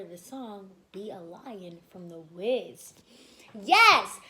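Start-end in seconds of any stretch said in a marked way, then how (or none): 3.6-4.2 loud happy yes; excited cheer. Real, not acted.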